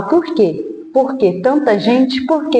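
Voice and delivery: crying out to God, half-retold grief; anguished why. Mother questioning God after her loss, anguished pleading. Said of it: "E eu falava".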